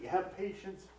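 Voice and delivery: begging. Acted. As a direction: repeat the promise, begging. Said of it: "But he's begging".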